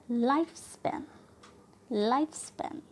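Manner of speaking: लाइफ स्पैन with LIFE stressed; first noun stressed. Shown as a demonstration. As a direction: lean on 'लाइफ', lighter 'स्पैन'. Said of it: "first noun पर trust करते हैं". (लाइफ स्पैन में 'लाइफ' पर ज़ोर)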